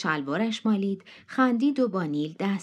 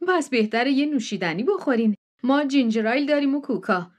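high, eager hostess voice pressing them in; a pushy country hostess insisting they come in; June's insistent welcome; 5 semitones higher, 4 dB louder than usual. Acted. Hostess June pressing the guests to come inside, high and eager.

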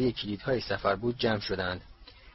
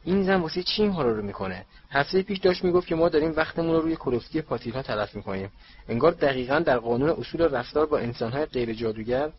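higher, rushed indignant rant; angrily; 3 semitones higher than usual. Acted. Percy ranting about the reporter, a higher, quick angry complaint. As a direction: fire it off fast, fed up with her. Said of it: "پرسی با عصبانیت گفت".

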